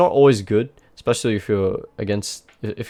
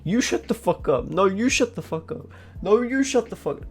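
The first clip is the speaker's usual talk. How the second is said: whiny, rising higher with each repeat; mocking Thresh; 11 semitones higher than usual. Streamer mocks the Thresh flaming in chat, whiny and climbing higher. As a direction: mimic a petty teammate escalating the spat. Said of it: "Then Thresh is like".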